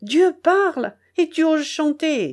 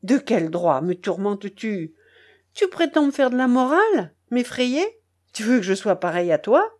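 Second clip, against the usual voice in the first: angry harangue; 3 semitones higher than usual. Acted. Charcot harangues the narrator in the rain, indignant and raised. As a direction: pour out all his pent-up resentment. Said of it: "me demanda-t-il avec colère".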